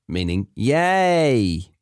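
usual speaking voice

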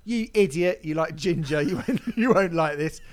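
a hint of a scornful reviewer; mock insulting reviewer. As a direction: play the snarky reviewer, half-joking. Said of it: "rather than going like".

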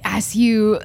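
solemn death narration. Acted. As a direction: narrate a hero's death, low and unhurried. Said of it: "you gotta be like".

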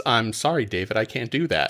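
quiet, even computer voice; lightly voiced calm machine; calm robot voice. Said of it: "how calm the robot voice is".

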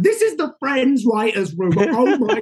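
buzzing to be in that room; starstruck thrill. Retold or imitated. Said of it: "I was like".

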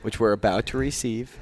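soft, rote grace; recited table blessing. Shown as a demonstration. Co-host shows his Catholic dinner blessing, soft recitation. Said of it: "blessing that everybody says".

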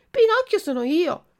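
high, loud excited answer; eager claim. Acted. Puppet telling the pigeon who he is, high and excited. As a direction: burst out proudly.

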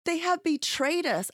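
put-on betrayed child to his mother; son's voice. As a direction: declare it like the hurt little boy. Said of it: "He's like".

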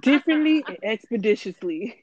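lightly mocking rapper diction, amused; mock-grand, over-enunciated long words; imitating T I. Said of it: "That's how he talks".

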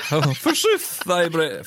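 high hammed-up old English; mock stage actor declaiming; hammy Shakespeare voice. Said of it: "I like that word".

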